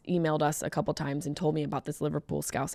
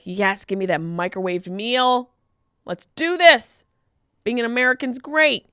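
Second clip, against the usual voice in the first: mock kid excitement; 5 semitones higher, 4 dB louder than usual. Mock kid cheering for microwave meal.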